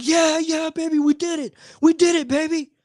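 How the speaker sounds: high, bright mock celebration; excited fan cheer. Stranger ten feet away celebrating the win, mock cheer.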